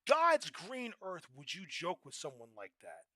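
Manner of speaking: slow, loud, every word hammered; indignant rant. Real, not acted. Asking the audience, loud slow indignation. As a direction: demand an answer from the room.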